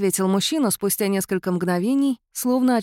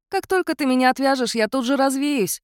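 cat-mouse spirit chiding the heroine; 6 semitones higher than usual. A narrator's reading. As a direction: remind her as the spirit.

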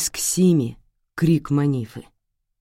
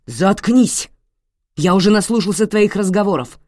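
loud, higher snarl of a raging husband; furious shout; 5 semitones higher, 7 dB louder than usual. Acted. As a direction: cut her off with a roar. Father shouting down his wife.

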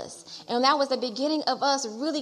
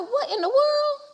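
high, laughing what-in-the-world; shocked laugh at the window; a surprised laugh breaking through; laughing disbelief; 12 semitones higher, 5 dB louder, slower than usual. Retold or imitated. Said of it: "I'm like".

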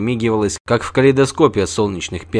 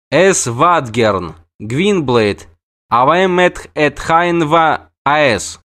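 put-on young dryad answering; 4 semitones higher, much slower than usual. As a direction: lay the strange words out firmly. Braenn answering in Elder Speech.

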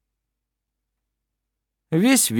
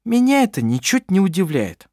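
sarcastic; 8 semitones higher than usual. A narrator's reading. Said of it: "язвительно сказала Клара".

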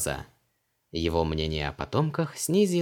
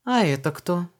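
put-on much higher, just-woken young woman; Luise's voice; 10 semitones higher, 4 dB louder than usual. A narrator's reading. Luise asks Vanessa why she is home, high. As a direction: ask lightly, a bit surprised.

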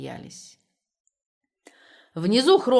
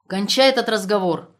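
stern order; 3 semitones higher, 8 dB louder than usual. A narrator's reading. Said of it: "ещё строже приказал Лаптев".

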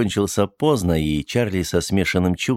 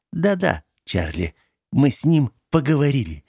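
gloating triumph; 5 semitones higher than usual. Acted. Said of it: "Её так и распирало от победного ликования".

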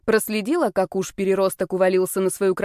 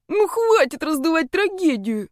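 much higher, moaning whine; tearful moan; 8 semitones higher than usual. A narrator's reading. Brother complaining to his sister, tearful higher moan. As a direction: moan it as if near tears. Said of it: "слёзно простонал он".

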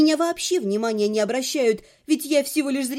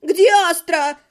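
indignant question; 4 semitones higher, 6 dB louder than usual. A narrator's reading. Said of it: "поддержала неизвестная и невидимая мне женщина".

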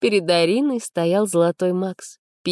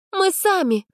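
much higher, chin-up refusal; proud refusal; 14 semitones higher, slower than usual. A narrator's reading. Arina proudly refuses Max's offer to push the car. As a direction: turn his help down proudly. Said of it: "гордо отказалась Арина".

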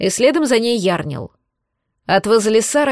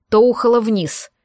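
ordinary delivery, nothing marked

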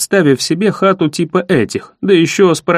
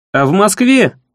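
firmer and louder; 4 semitones higher than usual. Acted. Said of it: "ещё твёрже и громче повторил я".

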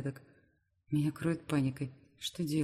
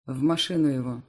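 a curt, louder order; commanding; 2 semitones lower, 6 dB louder than usual. Acted. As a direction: bark it to his men. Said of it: "командует Грозовой".

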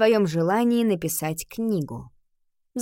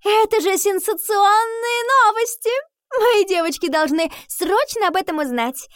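much higher, louder, sneering schoolgirl voice; mocking rival; 12 semitones higher, 5 dB louder than usual. Stesha taunting Nika to her friends, shrill sneering mockery. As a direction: shriek the news out in a sneering mock delight. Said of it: "смотрела на Нику с издёвкой".

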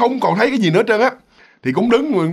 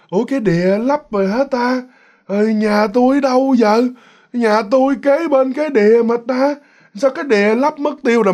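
put-on muttering old man; 6 semitones higher than usual. Old man wanders off talking to himself, lightly voiced bewilderment. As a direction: puzzle it out to yourself, lightly aged. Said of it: "Cái ông lẩm bẩm".

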